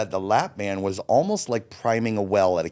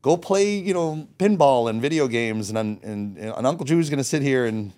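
put-on cheery call to the kids; 3 semitones higher than usual. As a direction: sell the kids on the game room with big enthusiasm. Sending kids off to play.

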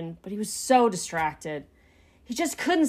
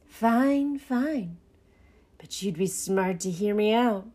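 put-on rat character voice; shady rat; slower than usual. A narrator's reading. Rat urges Pinky to listen, sly. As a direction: give in, then drop the pitch to advise.

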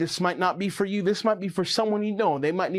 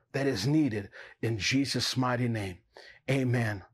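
gentle prayer. Acted. Closes prayer softly.

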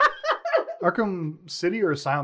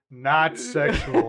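quoting It's Always Sunny; 4 dB louder, much slower than usual. Retold or imitated. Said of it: "Like It's Always Sunny".

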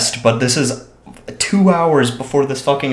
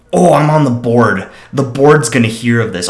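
louder, pompous mock threat; imitating threats; 6 dB louder than usual. Mocking the neighbor who threatens with the board, pompous. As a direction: lord the board over them. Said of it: "she was threatening".

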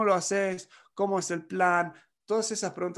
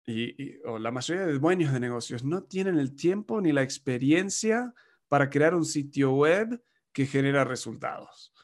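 mock ad pitch. Marketing agency pitching its website service, mock upbeat ad read. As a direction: sell it like a lightly hammed-up agency ad. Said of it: "La agencia de marketing puede decir".

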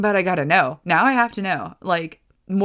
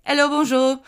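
acted shop greeting; 9 semitones higher, 3 dB louder than usual. Acts out server greeting them.

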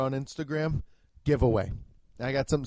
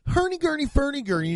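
mock Belgian gibberish; 9 semitones higher, 4 dB louder, faster than usual. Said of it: "I can't even do that fucking accent".

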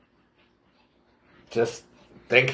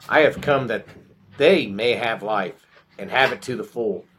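measured, emphatic Bible reading in raised pitch; scripture reading; 3 semitones higher than usual. Acted. Reading John ten aloud to the group, scripture reading. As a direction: read scripture out with deliberate pauses.

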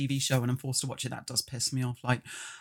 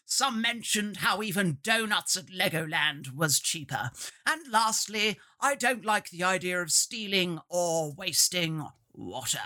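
Dowager Duchess voice; 2 semitones higher than usual. Acted. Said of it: "I can't turn the Dowager Duchess voice off now".

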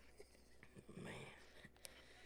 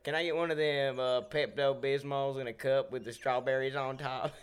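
customer ordering; 4 semitones higher, 5 dB louder than usual. Retold or imitated. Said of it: "the Pepto-Bismol drink".

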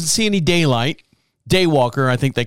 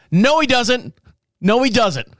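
higher, firm "No, he doesn't"; stubborn denial; 6 semitones higher than usual. Retold or imitated. Driver arguing back at the man, higher stubborn denial. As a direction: flatly refuse him. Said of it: "I go".

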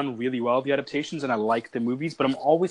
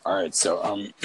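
low energy; 7 semitones lower than usual. Real, not acted. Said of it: "like, low energy right now".

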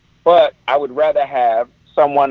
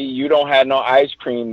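slow, drawn-out sassy taunt; lightly voiced bratty kid; a hint of the Eddie Murphy routine; Eddie Murphy bit. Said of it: "doing that Eddie Murphy".

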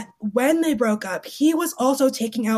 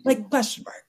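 whispering. Real, not acted. Whispered aside.

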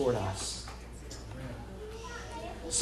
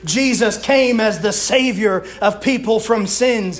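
emphatic, higher-pitched sermon delivery; preaching; 4 semitones higher than usual. Real, not acted. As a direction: drive each point home to the congregation. Preaches building exhortation.

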